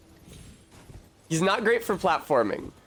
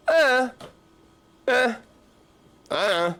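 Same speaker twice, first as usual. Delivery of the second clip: high, halting "uh" noises; clueless, stop-start "uh"; dumb stammer; 10 semitones higher, slower than usual. Acted. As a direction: grunt blankly, lost for an answer. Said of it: "And you just go".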